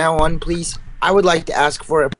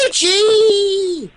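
shout. Acted. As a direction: yelp it out high. Silly shout.

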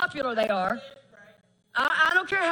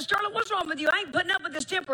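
scolding son; 4 semitones higher, faster than usual. Retold or imitated. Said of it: "and I said".

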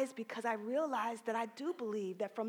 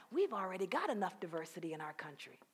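smug inner voice; 5 semitones lower, 4 dB quieter, faster than usual. Retold or imitated. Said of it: "That's Miss Reconciliation talking there".

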